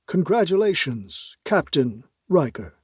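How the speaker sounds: slow, ceremonious president; slow formal congratulation. Acted. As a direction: savor the new title formally.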